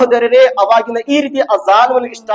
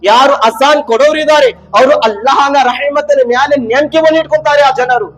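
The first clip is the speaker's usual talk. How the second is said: raised, insistent sermon voice; forceful preaching; 6 semitones higher, 5 dB louder than usual. Real, not acted. Preacher promising God's mercy to those who call azan, forceful preaching. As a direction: press the promise on the congregation.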